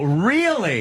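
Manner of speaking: dry, doubting sarcasm; a sarcastic "really". Shown as a demonstration. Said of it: "See, it's called sarcasm".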